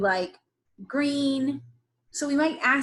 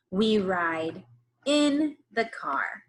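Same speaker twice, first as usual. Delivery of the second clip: slow choral read; slower than usual. Shown as a demonstration. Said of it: "read this sentence with me".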